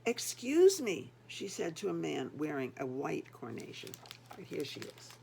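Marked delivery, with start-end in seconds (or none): 0.1-1.1 slow, louder, anxious excuse me; calling out in growing distress; upset plea. Acted. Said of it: "grew more and more upset".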